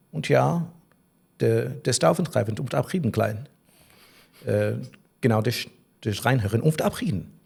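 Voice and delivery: mock German accent with made-up words; fake German gibberish. Shown as a demonstration. Pretending to be German to a girl he met, in a German gibberish accent. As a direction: rattle off German-sounding nonsense in a German accent. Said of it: "I'll give you an example".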